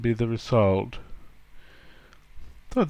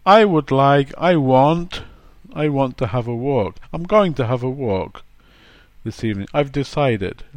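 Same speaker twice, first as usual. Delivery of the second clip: louder, firm statement of intent; blunt, decided; 4 dB louder than usual. Retold or imitated. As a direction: say it flatly, no room to argue. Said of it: "then they really mean".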